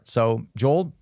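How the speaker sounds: ordinary talk, nothing marked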